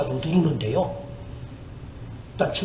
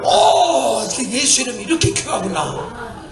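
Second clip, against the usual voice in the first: amazed exclamation; 2 semitones higher, slower than usual. Retold or imitated. Amazed as demon leaves.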